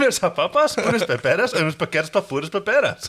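hammed-up Spanish patter; mock Spanish. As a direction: fake Spanish market chatter. Joke Spanish market vendor voice.

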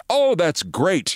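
put-on slow, eager European accent, only hinted at; thick European accent. Marathon founder greeting a reporter's call, in a lightly imitated European accent. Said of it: "in a rather thick European accent".

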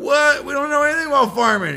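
high, fast, baffled outburst; mock incredulous protest. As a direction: object as bewildered kids. Kids protest the farming plan.

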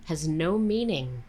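imitating dad's Indian accent; thick Indian accent. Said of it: "he puts on a thick Indian accent".

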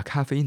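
咖啡因 said as in Chinese, passed off as English; mispronounced English caffeine. Retold or imitated. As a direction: mimic the misreading 咖啡因 in three syllables. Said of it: "把咖啡因的英文念成咖啡因".

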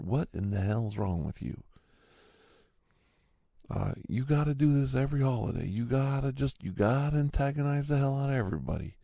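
mock yelling, exasperated complaint held high; retold angry yell. Man yelling off his porch at neighbor, retold angry yell. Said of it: "And I yell".

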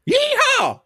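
high whooping yeehaw; cowboy yeehaw. Pretend. Excited about talking rodeo.

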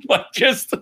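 high breathy wheezing laugh; silent laugh. Shown as a demonstration. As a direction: shake with laughter, no sound. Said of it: "I'm gonna get close to the mic".

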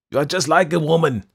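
put-on exasperated yelling old man. A narrator's reading. Old painter to Sue, an exasperated yell. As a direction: bellow it at her. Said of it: "yelled Behrman".

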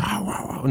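high, soft mock hollering; half-voiced mimicked foreign yelling; imitated distant shouting. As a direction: imitate garbled yelling, high but held back. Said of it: "Κάτι φωνάζει".

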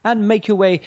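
slow, lightly put-on wedding announcer; mock MC. Friend parodying what DJs say, mock MC announcement. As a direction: imitate a formal MC calling guests up. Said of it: "what do they all say?".

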